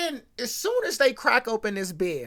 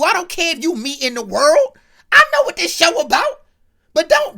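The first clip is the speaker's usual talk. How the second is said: loud, higher indignant scolding; mock furious dad; 4 semitones higher, 4 dB louder than usual. TV dad scolding his drunk son for using him as an excuse, hammed-up fury. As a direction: lay into the kid like an outraged father. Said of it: "Alan pressed Corey drunk tail out".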